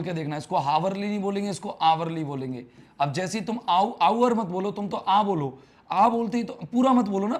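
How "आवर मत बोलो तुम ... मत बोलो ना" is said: louder, higher mock-exasperated correction; teacher stopping a student who starts the full word. Real, not acted. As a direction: cut the student off, half laughing.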